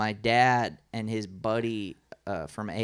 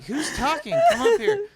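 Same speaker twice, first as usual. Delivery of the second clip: high-pitched challenge to the room; reenacted comic addressing a heckler; calling out; 7 dB louder than usual. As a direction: call a stranger up from the crowd. Comic calls out to unseen heckler.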